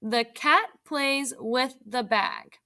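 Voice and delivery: put-on slow, word by word for young readers; slow read-aloud. Shown as a demonstration. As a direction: read it out slowly so kids can follow. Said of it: "Let's read it together".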